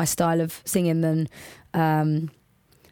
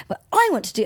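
pop diva impression; 6 semitones higher, faster than usual. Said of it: "I sound like a singer".

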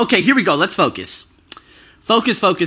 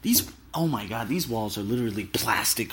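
holding back a shout; 7 semitones lower, 9 dB quieter than usual. Real, not acted. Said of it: "I'm trying not to scream".

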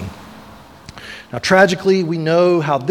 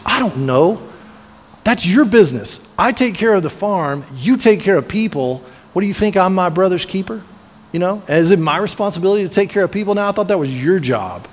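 Cain's voice pitched up, heated and defiant; imagined angry yell; 5 semitones higher than usual. Retold or imitated. Cain lashing out at God when asked about Abel, heated raised voice. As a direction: throw the words back at God in a hot, raised retort. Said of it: "you can imagine him yelling at God".

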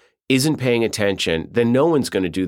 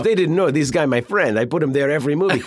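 put-on Italian accent; 5 semitones higher than usual. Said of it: "he goes".

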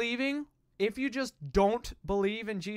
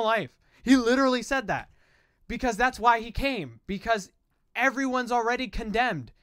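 preacher voice; 2 semitones higher than usual. Real, not acted. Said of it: "my yelling voice, my preacher voice".

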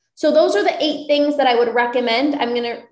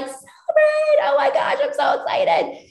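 very high, squealing cheer that fades to a breathy gush; over-the-top excitement; 13 semitones higher than usual. Retold or imitated. Coach cheering on her clients, squealing with excitement. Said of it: "I'm like".

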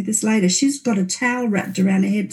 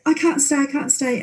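panicked; 5 semitones higher than usual. Retold or imitated. Panicked in retold scene.

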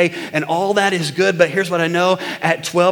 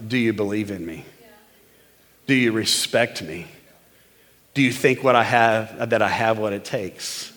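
man's quiet plea; 8 semitones lower, 5 dB quieter than usual. Retold or imitated. Man's inner questions voiced.

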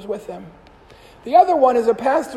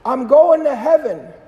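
loud, cheerful yell; yelled back; 3 semitones higher, 8 dB louder than usual. Retold or imitated. Priest yelling his answer across the parking lot. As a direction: shout it back with joy. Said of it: "Father John yells back".

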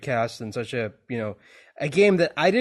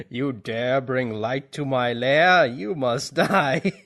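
Ganondorf voice; much slower than usual. Pretend. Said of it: "the deep, rumbly voice".

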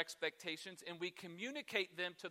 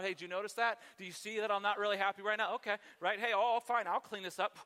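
huffy passive-aggressive; 3 dB louder than usual. Retold or imitated. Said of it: "I'm huffing and puffing".

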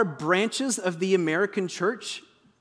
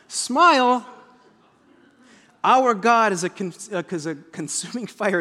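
mock cheerful. Pastor mocking the roadside sign for the congregation, mock cheerful.

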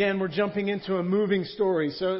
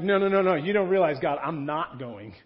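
protesting Moses; 4 dB louder than usual. Acted. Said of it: "And he's like".

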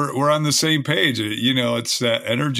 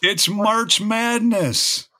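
excited reveal; 9 semitones higher, much slower than usual. Real, not acted. Big reveal of the holiday.

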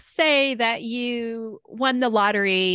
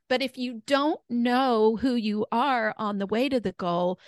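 hoarse, worn voice; losing voice. Real, not acted. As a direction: voice going hoarse. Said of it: "I'm losing my voice today".

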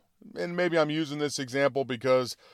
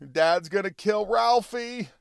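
put-on higher-pitched, drawn-out worried kid; mock whimpering child; 6 semitones higher, slower than usual. Frightened little brother tells mom about dad, mock whimpering. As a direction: lightly voice a scared little brother. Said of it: "hears the little brother whimpering".

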